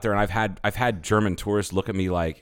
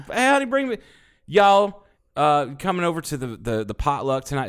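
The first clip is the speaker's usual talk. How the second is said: southern redneck; 5 semitones higher than usual. Pretend. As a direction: call out like a redneck inviting friends. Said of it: "He's like".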